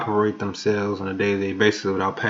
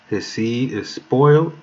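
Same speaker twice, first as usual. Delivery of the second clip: slow, high, louder gloating reading; gleeful emphasis; 4 semitones higher, 4 dB louder, slower than usual. Real, not acted. Preacher gloating to his enemies, slow and loud. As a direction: savor the verse with glee. Gloating over scripture verse.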